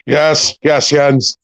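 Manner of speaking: light Irish accent, impression held throughout; Irish lilt, playing the actor; a hint of an Irish Pierce Brosnan accent. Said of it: "Are you sure you're Pierce Brosnan?".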